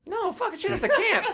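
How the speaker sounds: high, laughing outburst; cracking up in frustration; laughing exasperation. Real, not acted. Clue giver cracks up at a wrong guess, high and laughing.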